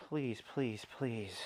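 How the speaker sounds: soft repeated begging; murmured please, please; quiet pleading. Real, not acted. Begging car to start.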